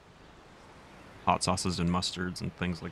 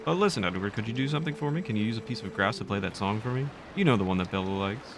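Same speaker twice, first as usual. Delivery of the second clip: put-on bubbly sorority girl; 3 semitones higher than usual. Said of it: "I usually give Zelda the Valley Girl accent".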